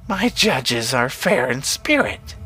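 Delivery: slow, swooping witch voice. A narrator's reading. Witch defending her crows to Brenner, slow witch voice. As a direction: draw the words out like a witch.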